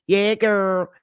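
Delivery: light demo of a Southern accent. Shown as a demonstration. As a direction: say it like a Southern girlfriend chat. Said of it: "you know, like from the South".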